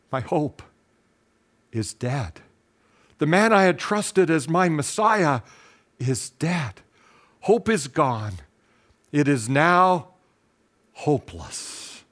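grieving disciple murmuring that all hope is gone; anguished despair. Retold or imitated. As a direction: let the hope drain out of each phrase, ending almost inaudible on hopeless. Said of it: "the anguish and the pain".

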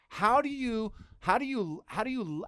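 pitched high and loud, repeated in disbelief; amazed stammer. Retold or imitated. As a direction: stumble over it in wonder. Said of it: "people say".

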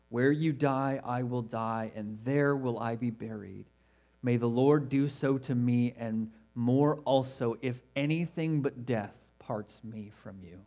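measured, reverent Bible reading; scripture reading. Acted. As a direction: read it like a sacred promise. Reads Ruth's vow from scripture.

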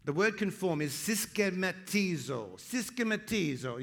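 Syschematizo said with a lilting Italian ring, sis-ke-ma-TEE-zo; Italian-style Greek word. Shown as a demonstration. Pastor teaching the church a Greek word, Italian-flavoured pronunciation. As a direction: roll out Syschematizo like an Italian would. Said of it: "You gotta say it like an Italian".

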